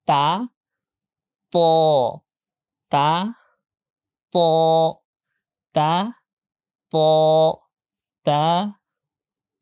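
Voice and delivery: light open "তা" against heavy rounded "ত"; thin-thick contrast. Shown as a demonstration. Teacher drills similar letters for students, thin-thick contrast. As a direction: alternate thin "তা" and thick, held "ত". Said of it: "এটা মোটা করে উচ্চারণ করতে হবে".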